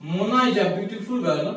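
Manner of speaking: very slow, word by word; slow classroom example read; slow dictation. Shown as a demonstration. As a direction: dictate the example sentence slowly. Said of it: "जैसे हम example बोलते हैं".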